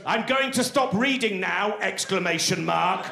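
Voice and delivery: indignant academic spelling it out slowly; slow, emphatic scribbled outburst read aloud; angry academic. Acted. Comic reads an academic's furious margin note, indignant. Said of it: "the angry scribbles of an academic".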